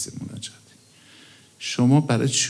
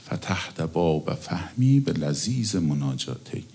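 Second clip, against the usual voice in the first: prayer recitation; 3 semitones lower, slower than usual. Acted. Recites prayer line slowly.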